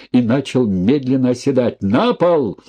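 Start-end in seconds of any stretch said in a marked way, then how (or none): 1.8-2.6 police shout. A narrator's reading. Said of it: "Голос разрезал зал".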